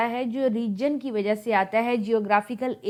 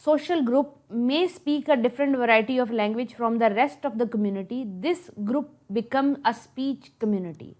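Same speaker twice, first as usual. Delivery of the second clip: dictation; much slower than usual. Shown as a demonstration. Teacher dictates English definition.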